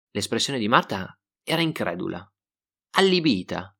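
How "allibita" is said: ordinary delivery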